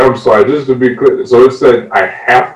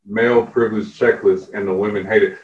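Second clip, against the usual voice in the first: hushed nature documentary. Pretend. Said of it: "switching to my narrator voice".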